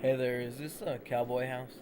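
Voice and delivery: put-on Russian accent voice. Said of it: "do my Russian voice now".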